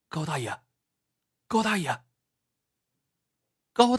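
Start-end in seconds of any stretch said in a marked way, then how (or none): 0.1-2.0 soft, tentative call; calling gently. Acted. Young man checking whether the collapsed old man is conscious, gently calling. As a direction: call softly to rouse someone. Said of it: "他轻轻地叫道".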